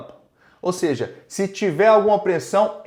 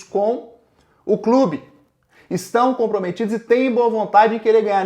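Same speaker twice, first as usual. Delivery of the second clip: rallying fans; 3 semitones higher, 3 dB louder than usual. Real, not acted.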